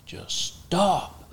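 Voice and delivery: high sharp retold yell to stop; yelling at friend. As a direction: shout him down, mock urgent. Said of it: "I'm yelling at him now".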